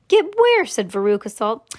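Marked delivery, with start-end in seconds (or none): 0.1-0.6 put-on high, loud child's demand; sharp, high-pitched storybook query; demanding question. A narrator's reading. Impatient child questions Wonka in story.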